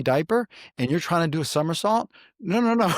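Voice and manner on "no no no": excited no. Real, not acted. Laughing at diaper chaos.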